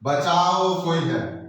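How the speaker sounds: mock fear. Shown as a demonstration. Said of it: "भय उत्पन्न हो रहा है".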